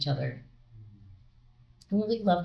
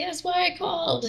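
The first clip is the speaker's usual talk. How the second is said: excited; 12 semitones higher than usual. Retold or imitated. Johnny voiced, still excited.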